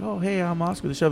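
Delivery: high, lilting hello; retold chirpy welcome; friendly greeting. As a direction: introduce yourself sweetly, acting it out. Retells greeting an unhappy diner.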